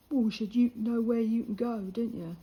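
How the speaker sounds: loud no-nonsense comeback; firm retort. Retold or imitated. Telling the cheeky lad where to go, loud and firm. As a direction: put him in his place, loud and sharp.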